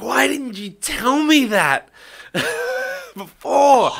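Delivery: high, squeaky laughing question; mock outrage dissolving into laughter; laughing disbelief. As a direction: break into a laugh mid-question, voice cracking high. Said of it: "I was like".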